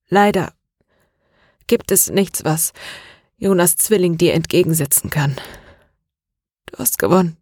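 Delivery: a mild catch in the voice, near tears; breaking voice. Acted. Jonas admits defeat to René, voice breaking. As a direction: give up as the voice starts to break. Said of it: "sagte Jonas mit brechender Stimme".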